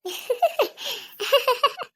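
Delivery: high-pitched acted sobs; sobbing. Hurt wife left alone after her husband's scolding, sobbing. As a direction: burst into high, broken sobbing. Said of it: "please ಅಳಕ್ ಹೋಗ್ಬೇಡ ಮೀನಾ".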